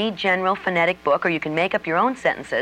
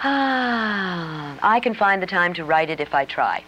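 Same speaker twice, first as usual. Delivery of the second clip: slow southern accent with long, stretched I vowels; slower than usual. Shown as a demonstration. Coach demonstrating a vowel practice sentence, southern accent. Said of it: "for the long I sound".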